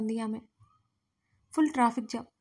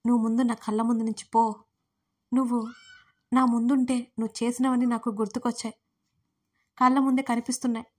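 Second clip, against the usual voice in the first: louder, tired angry order; weak but angry; 4 dB louder than usual. Acted. Weak Yagna orders Daksh out, tired angry voice. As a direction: push him away, angry though weak. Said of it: "నీరసంగా చెప్పింది కోపంగానే".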